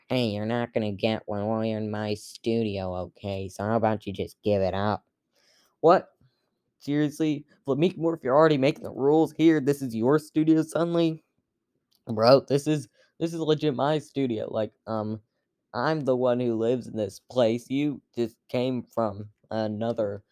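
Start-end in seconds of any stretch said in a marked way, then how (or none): 5.8-14.5 raised, fast and indignant. Acted. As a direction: bristle back, offended. Indignant bird argues back.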